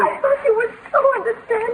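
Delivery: tearful reproach; soft crying complaint; quietly hurt. Acted. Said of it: "Oh, don't cry".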